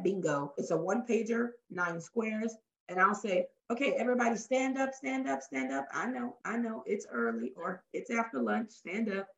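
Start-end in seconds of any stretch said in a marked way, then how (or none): 3.7-9.3 higher-pitched, coaxing call to the room; rallying facilitator. Acted. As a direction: get a sluggish group on their feet. Acting out rallying a workshop room.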